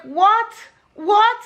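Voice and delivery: startled cry of what; shocked what. Retold or imitated. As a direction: gasp it out in disbelief. Shocked at mismatched shoes.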